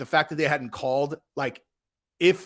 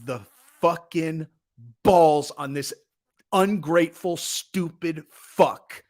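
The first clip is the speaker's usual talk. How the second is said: retold outrage; much slower than usual. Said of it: "And I just was like".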